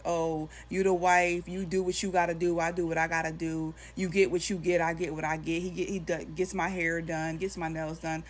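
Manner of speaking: lightly mock her smug tone; mocking imitation. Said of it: "stuff that she's saying to me".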